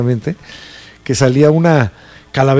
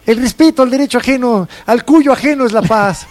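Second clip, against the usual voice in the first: mock solemn quotation; 9 semitones higher than usual. Mock Benito Juárez quote, high voice.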